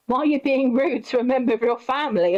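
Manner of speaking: indignant. Retold or imitated. Friend challenging cousin over family, indignant.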